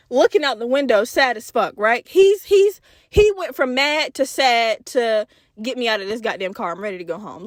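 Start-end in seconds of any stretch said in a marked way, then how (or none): 5.6-7.5 low, mumbled defeated voice, fading; defeated kid. Retold or imitated. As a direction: sound beaten and done. Sad defeated cousin.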